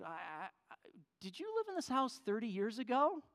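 mildly nervous asking; hesitant question. Retold or imitated. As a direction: stumble on the start, then ask it carefully. Nervous man asks the woman.

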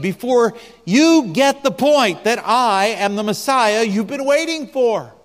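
preacher voicing a weary, frustrated Messiah; frustrated Jesus. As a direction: let the frustration build with each question. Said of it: "notice the frustration".

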